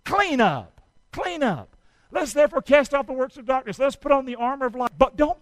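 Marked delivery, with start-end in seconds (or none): 0.0-1.8 1 call. Shown as a demonstration. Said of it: "Say that with me".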